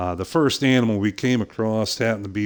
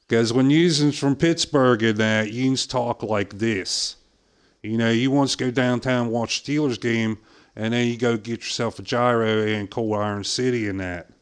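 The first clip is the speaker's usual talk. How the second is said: put-on Pittsburgh accent; 2 semitones higher than usual. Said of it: "I worked very hard not to sound like that".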